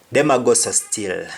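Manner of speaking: patois again; Jamaican patois. Shown as a demonstration. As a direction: repeat Them a go so still.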